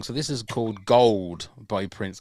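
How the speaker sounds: slow radio-DJ intro of the song title; radio announcer voice. Shown as a demonstration. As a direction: introduce the track like a DJ. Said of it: "that sounds like a proper radio thing".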